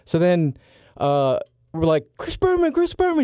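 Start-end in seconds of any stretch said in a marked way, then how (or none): 2.2-3.2 high, eager call of a name. Retold or imitated. Two kids in a security grip, high eager call. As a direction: hail him across the room. Calling out to Berman.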